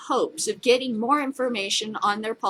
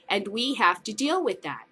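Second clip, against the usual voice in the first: ordinary talk, nothing marked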